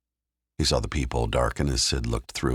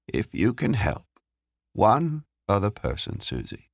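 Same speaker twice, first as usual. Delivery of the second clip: lightly voiced kind woman, higher pitch; Joan, kindly; 7 semitones higher than usual. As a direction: gently encourage her in a higher voice. Figure in narrated story.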